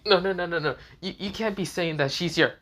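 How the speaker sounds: shocked denial. A narrator's reading. Irina hearing Issei loves a devil, shocked. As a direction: refuse to believe it.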